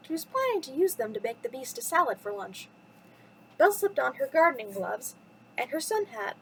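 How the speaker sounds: lively storytime narration with swooping pitch; children's story reading. Acted. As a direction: read it to little listeners, lilting from phrase to phrase. Reads a children's bedtime story.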